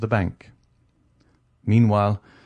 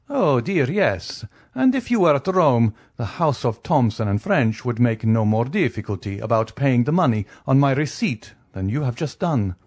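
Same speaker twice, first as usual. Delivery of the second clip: airy count, higher opening; obliging count, lightly voiced; 3 semitones higher than usual. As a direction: breezily reassure as the count. Count reassures the banker.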